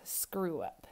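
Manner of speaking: a lightly voiced inner voice, hushed; whispering voice of doubt. A narrator's reading. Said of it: "the voice whispers".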